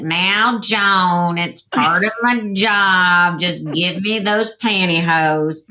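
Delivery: slow Texan drawl on the pantyhose line; imitating a Brownwood, Texas dresser, Southern accent. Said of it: "she had this very heavy Southern accent".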